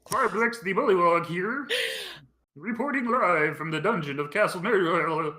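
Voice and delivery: lightly voiced chirpy frog; a hint of a puppet frog; frog creature voice. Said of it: "in that voice".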